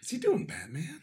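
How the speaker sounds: Batman voice. Retold or imitated. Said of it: "Or is that his tough guy voice".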